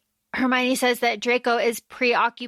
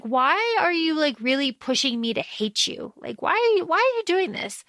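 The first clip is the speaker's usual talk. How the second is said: acted pleading; 4 semitones higher than usual. Acting out her anguished question.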